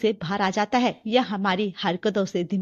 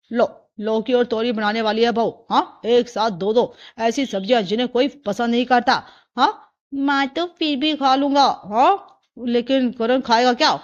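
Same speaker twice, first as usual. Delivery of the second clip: lightly voiced doubting grandfather; a hint of a complaining family elder; grumbling father-in-law; 4 dB louder than usual. Father-in-law doubting the boy will eat vegetables, mildly grumbling.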